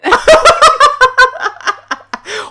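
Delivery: high, loud burst of laughter. Real, not acted. Laughing at own joke.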